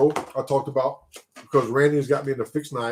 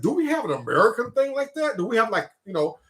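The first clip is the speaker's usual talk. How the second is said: retold question; 6 semitones higher than usual. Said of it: "I was like".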